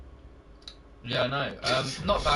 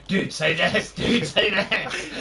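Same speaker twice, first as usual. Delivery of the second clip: tempting inner voice; 6 semitones higher, 6 dB louder, slower than usual. Retold or imitated. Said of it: "my brain's like".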